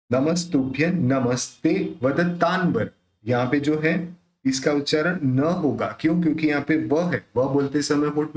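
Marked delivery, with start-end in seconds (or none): 0.1-2.9 वदतान्वर with the nasal sounded as n before व. Shown as a demonstration. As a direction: say वदतान्वर with n, lips not meeting. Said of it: "उसका उच्चारण न के रूप में करेंगे".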